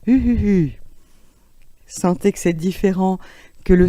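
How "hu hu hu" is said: higher, louder hu hu hu laughter; laughing on U. Shown as a demonstration. Teacher demonstrating laughter on the U vowel, higher and louder. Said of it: "Et puis le hu".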